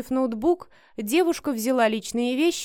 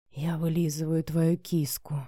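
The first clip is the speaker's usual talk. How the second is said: hoarse man voice; 4 semitones lower than usual. A narrator's reading. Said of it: "прохрипел мужчина".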